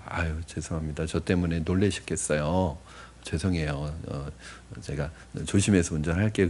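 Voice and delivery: quiet, humble apology to the angry driver; soft apology. Retold or imitated. Pastor apologizing to angry driver, quiet and humble. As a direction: soften it right down, sorry and gentle. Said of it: "거기다 대고".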